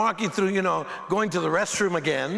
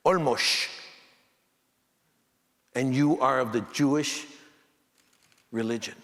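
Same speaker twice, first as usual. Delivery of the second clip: put-on lightly lower, slow old man's voice; unhurried elder explaining, a bit lower; 5 semitones lower than usual. Old man explains the name Olmos, lightly lower and slow. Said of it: "He says".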